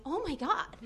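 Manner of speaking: retold horror, rising to a loud exclamation; horrified realisation. Panicked realisation retold on stage.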